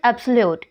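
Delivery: "absolute" with the force on "ab"; first-syllable stress. Shown as a demonstration. Teacher giving the next example word, "absolute" stressed on "ab". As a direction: hit "ab" in "absolute", let the rest drop. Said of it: "इसमें भी first syllable पर लगी है".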